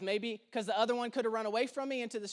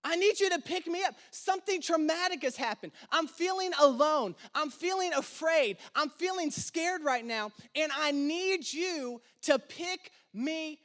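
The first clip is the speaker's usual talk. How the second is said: pleading prayer; 3 semitones higher than usual. Acted. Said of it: "He's saying".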